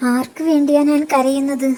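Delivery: bitter outburst. A narrator's reading. Wife's outburst over husband.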